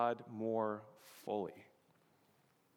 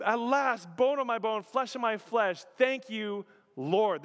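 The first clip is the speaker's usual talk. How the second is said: raised, heartfelt exclamation easing down; exuberant; 7 semitones higher, 4 dB louder than usual. Acted. Preacher voicing Adam thanking God for woman, exuberance easing off. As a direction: start high and glad, settle into thanks. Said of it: "notice the exuberance here".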